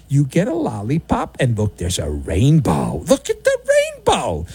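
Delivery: mocking kid-show voice; mock childish wonder. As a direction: talk like to a toddler, sugary. Mocking team media positivity.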